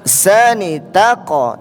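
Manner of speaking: "tako" dengan ko memantul; qalqalah. Shown as a demonstration. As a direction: ucapkan "Sani tako" pelan, pantulkan ujungnya. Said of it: "Tako pantul lagi huruf ko-nya". (pantulan jelas pada "tako")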